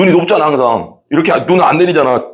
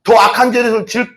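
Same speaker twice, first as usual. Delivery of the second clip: ordinary talk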